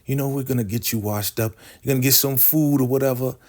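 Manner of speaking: high, smug mock pride in a falsetto; hammed-up high matriarch voice; mock Elder Mother. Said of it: "Elder Mother is just like".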